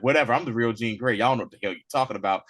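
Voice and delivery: fast, mildly irritated retort; retold annoyed snap. Clone Jean snaps at everyone doubting her, mildly pissed off. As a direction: rattle it off dismissively, mock-annoyed. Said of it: "she's getting pissed off and she snaps".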